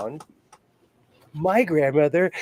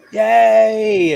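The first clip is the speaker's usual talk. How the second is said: excited cheer; 8 semitones higher, 8 dB louder than usual. Real, not acted. Cheering a friend joining the call.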